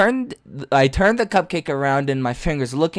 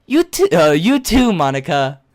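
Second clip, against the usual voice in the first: put-on girl voice; 3 semitones higher, 5 dB louder than usual.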